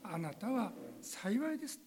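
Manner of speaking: slowly, gently voicing the Lord's blessing; slow, tender words of Jesus. Shown as a demonstration. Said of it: "主イエスの声、この言葉を".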